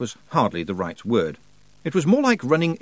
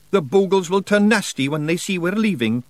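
Scottish Feegle voice; 9 semitones higher, 5 dB louder than usual. Acted. Rob Anybody speaking.

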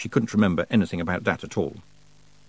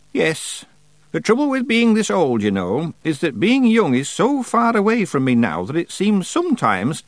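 put-on weary old witch voice; 10 semitones higher than usual. A narrator's reading. Old witch reflects, sighing.

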